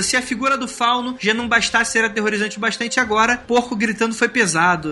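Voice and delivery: ordinary talk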